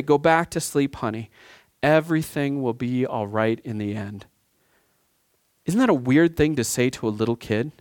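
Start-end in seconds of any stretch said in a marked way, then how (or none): 0.0-4.2 lightly voiced mother calming a scared kid; mother soothing child. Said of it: "you hear the mother's voice say".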